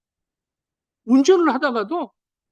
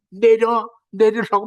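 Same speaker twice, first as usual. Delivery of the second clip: retold angry yell; 4 semitones lower, slower than usual. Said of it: "막 이러고".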